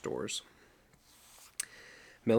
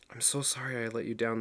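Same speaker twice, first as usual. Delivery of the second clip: gruff. Acted. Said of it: "the big man said gruffly".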